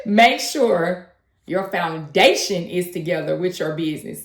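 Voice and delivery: slow, measured delivery of the tip. Shown as a demonstration. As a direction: take it slowly, point by point. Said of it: "Let me say it a little slower".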